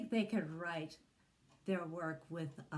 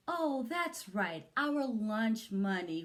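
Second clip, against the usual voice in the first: mock shout; 4 semitones higher, 5 dB louder, slower than usual. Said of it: "we shout".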